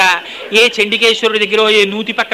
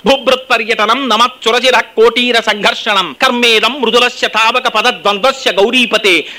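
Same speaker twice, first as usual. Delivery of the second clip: sloka recitation. Acted.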